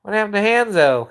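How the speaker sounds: ordinary delivery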